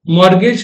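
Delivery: मॉर्गेज with no T sound; variant pronunciation. Shown as a demonstration. Teacher showing students how mortgage is pronounced, variant pronunciation. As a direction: say मॉर्गेज as "mor-gej". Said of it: "तीन अलग अलग तरह से pronounce".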